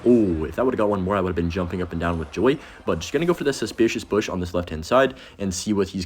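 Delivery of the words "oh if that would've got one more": normal talking voice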